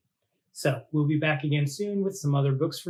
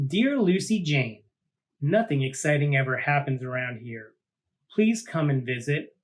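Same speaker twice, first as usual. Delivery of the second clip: storybook narration. A narrator's reading. Host reading Sally Ann's letter to Lucy Jane, gentle storytelling. Reads closing letter scene.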